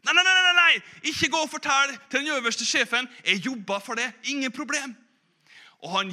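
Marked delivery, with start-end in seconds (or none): 0.0-5.0 high, loud frantic begging; young cook desperately pleading with the old man; panicked pleading. Acted. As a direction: beg him not to tell, in a panic.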